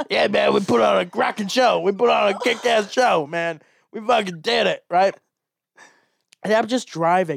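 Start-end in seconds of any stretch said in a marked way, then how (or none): 0.1-4.8 put-on drunken voice. Retelling how a drunk companion celebrated after a show: imitating drunk Matt. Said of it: "and then they're hammered".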